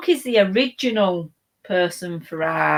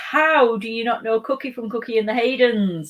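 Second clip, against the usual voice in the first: raised, incredulous protest; indignant disbelief; 5 semitones higher, 4 dB louder than usual. Real, not acted. Host to a viewer who doesn't know the dog, incredulous. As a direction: playfully scold an ignorant viewer. Mock outrage at viewer's question.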